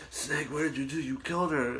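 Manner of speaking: lightly acted game-character reproach; Colonel Cameron. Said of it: "Colonel Cameron would be like".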